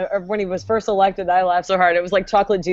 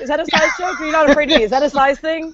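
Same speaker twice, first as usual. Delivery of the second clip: higher-pitched, indignant Napoleonic challenge; feisty little snake; 4 semitones higher than usual. Acted. Tiny snake defying a big human, mock indignant. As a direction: play a tiny snake itching to fight. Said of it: "That's all the snakes talk in my head".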